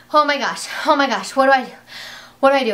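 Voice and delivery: retold excited panic. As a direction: gush like you can't believe it. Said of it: "so shocked and so excited and just freaking out".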